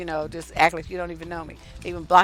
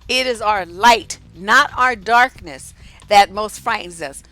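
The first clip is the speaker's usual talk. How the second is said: solemn, weighty recitation; inspirational recitation; 4 dB louder than usual. Acted. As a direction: deliver it like a poem from the pulpit. Recites famous inspirational quote.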